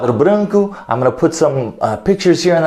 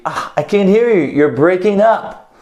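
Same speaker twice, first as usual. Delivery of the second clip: caller on a bad line; 5 semitones higher than usual. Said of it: "so I would be".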